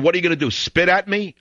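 mildly nervous passenger, lightly voiced; mock scared. Scared passenger asking the host, a touch of mock fear. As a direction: ask it like a rattled man backing away. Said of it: "Then he got scared and he said".

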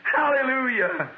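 high, slow cry of praise; exclaimed praise. Real, not acted. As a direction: call it out high, stretching the word.

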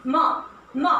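म, म said as a clear, held m sound; teacher's phonics demo of म. Shown as a demonstration. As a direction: model the letter sound म, म for students. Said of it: "एम alphabet का sound है म".

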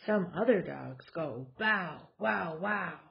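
lively, sing-song picture book reading; reading to children. Acted. Mom reading a board book to her kids, animated storytelling. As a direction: read it out like story time for toddlers.

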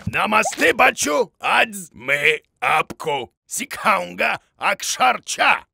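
Hindi lesson. Acted. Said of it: "ты говоришь на хинди".

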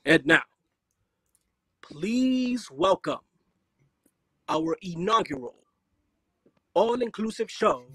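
slow, booming circus announcer; grand flamboyant showman; ringmaster voice. Shown as a demonstration. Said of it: "introduce Omnium Circus in your ringmaster voice".

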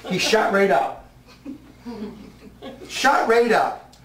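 laughing. Real, not acted. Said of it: "laughing at own story".

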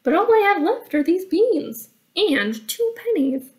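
put-on high, pleading boy voice; young Jack. Jack showing the troll his beans, high pleading voice. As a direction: plead like a poor lad with empty pockets.

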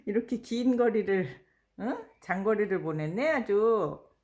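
loud, excited praise for a pet; talking to a dog. Real, not acted. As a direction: cheer the dog on loudly.

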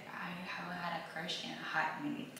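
soft whisper, almost to herself; whispered confession. Real, not acted. Vlogger admitting she has no crush, whispering. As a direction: admit it under your breath.

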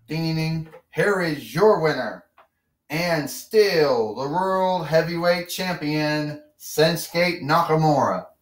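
slow drawn-out winner announcement; ring announcer. Pretend. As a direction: announce the champion to the crowd.

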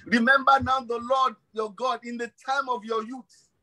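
high-pitched preacher's exhortation; urgent preaching. Real, not acted. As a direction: urge the congregation on, pitch lifted. Exhorts congregation with scripture.

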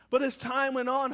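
ordinary delivery

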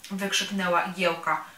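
usual speaking voice

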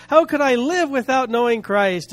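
retold joyful wonder; lightly acted burst of happy amazement; overjoyed. Preacher voicing the officer amazed by Christ, mildly overjoyed. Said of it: "so happy and so full of joy".

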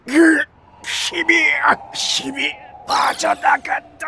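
high, slow, strained lament; anguished cry. Acted. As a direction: wail as strength fades. Power drains from the villain.

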